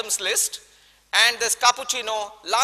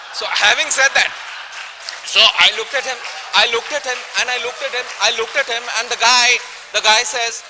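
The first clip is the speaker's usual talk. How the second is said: louder, laughing buildup to the punchline; gleeful louder retelling; excited buildup; 5 dB louder than usual. Retold or imitated. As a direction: pile on the suspense, laughing.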